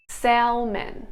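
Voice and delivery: "salmon" with the L sounded, "sal-men"; singlish. Shown as a demonstration. Singlish take of the word.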